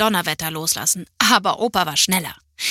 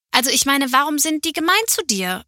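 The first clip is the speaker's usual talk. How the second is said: put-on child's voice; 6 semitones higher than usual. A narrator's reading. Child asks grandpa upset question.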